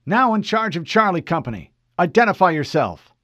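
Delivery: Fred reporting to an unknown officer, formal. Acted. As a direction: state rank crisply. Fred demands ID.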